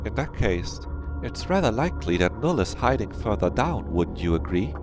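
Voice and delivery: lilting character voice with high swoops; lightly voiced game character. Game character putting a theory to the others, lightly voiced. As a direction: reason it out in a lightly put-on voice. Reads a character's dialogue aloud.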